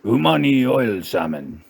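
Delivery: lightly put-on Japanese accent on a dish name; mock Japanese accent. Comic reading out a sushi menu, mock Japanese accent.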